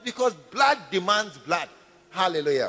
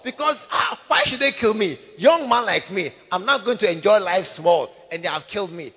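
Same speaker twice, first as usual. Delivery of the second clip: aggrieved complaint; 2 semitones lower, 4 dB louder than usual. Acted. Murdered young man complaining.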